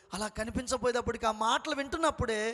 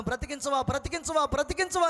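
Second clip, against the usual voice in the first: building cry; 3 semitones higher than usual. Retold or imitated. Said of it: "గట్టి గట్టిగా అరుస్తా ఉన్నాను".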